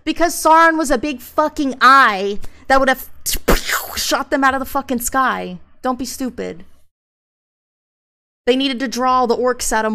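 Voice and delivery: loud and high, swearing in frustration; fed-up fan rant; exasperated rant. Real, not acted. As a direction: tear into a dumb argument. Ranting at people with a bad argument.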